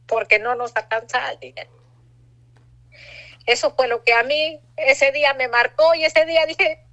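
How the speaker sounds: talking through rising tears; real emotion catching in the throat; voice breaking. Real, not acted. Recalling her son's question, emotional.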